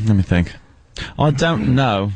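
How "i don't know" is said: put-on British accent, trying it out. Shown as a demonstration. Guest asks if he can do one, host demonstrates a British accent. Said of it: "can you do a British accent".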